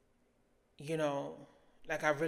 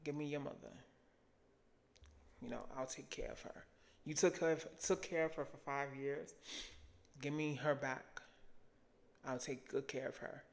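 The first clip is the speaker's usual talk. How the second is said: a hint of a tender, hushed God; God's gentle voice; 5 dB quieter than usual. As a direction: quietly voice God's promise. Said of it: "he told me, he was like".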